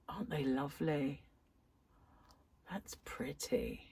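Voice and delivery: soft whisper of delight; awed whisper. Real, not acted. Crafter admiring new yarn, whispering in awe. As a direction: breathe it out like a secret.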